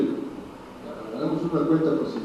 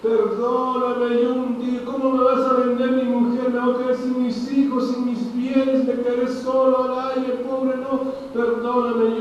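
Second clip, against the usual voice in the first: clamoring plea; 3 semitones higher than usual. Acted. Kneeling servant begging the king not to sell his family, pleading. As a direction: plead desperately, stretching the first words. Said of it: "empezó a clamar".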